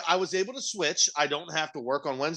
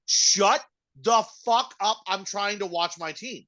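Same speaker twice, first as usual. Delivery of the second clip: higher, slow, every word spaced; slow firm telling-off; 4 semitones higher, slower than usual. Pretend. To the ranter during the Packers game, slow and firm. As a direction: lay down the law slowly.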